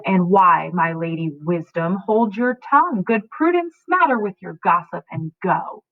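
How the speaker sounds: irritated, dismissive father; annoyed. Acted. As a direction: snap at her to leave. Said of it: "he is annoyed by her and tells her to leave".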